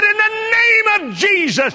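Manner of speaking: loud, high commanding cry; bold shout. Retold or imitated. Wife rebuking the earthquake, loud commanding shout. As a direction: command the shaking in Jesus' name. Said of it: "Gloria said".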